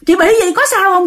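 put-on a little girl checking if you're hurt; young girl asking. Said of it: "Nó hỏi rằng".

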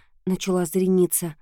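ordinary delivery

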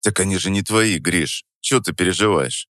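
тихо и спокойно, с усмешкой; ответь без тени тревоги. Acted. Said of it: "Спокойно ответил я". (спокойный ответ с лёгкой усмешкой)

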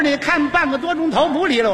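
urging. Acted. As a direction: needle the other player to move. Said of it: "他这么一催呀". (不耐烦地数落对手)

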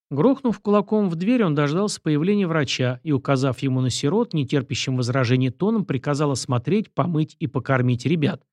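plain reading voice

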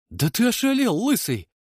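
high, loud outburst; indignant. A narrator's reading. Mishka shouts at Seriy for cutting off his hand, high and loud. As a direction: yell it in disbelief. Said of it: "возмутился я".

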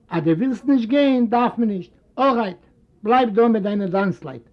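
a hint of a sardonic rich uncle; mocking uncle. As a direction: brush the old man off. Moses answers father mockingly.

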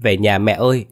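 mild tearful whimper; about to cry to mom; boy to his mother, lightly tearful. A narrator's reading. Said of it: "mếu máo nói".

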